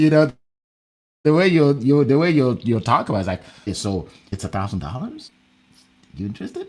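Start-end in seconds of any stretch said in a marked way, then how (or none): 3.6-6.7 hesitant, swooping, unsure and doubtful tone. Showing how quoting a thousand-dollar price sounds without confidence, unsure, unconfident tone. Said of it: "it will show in your voice that you don't believe you can come up with a thousand dollars".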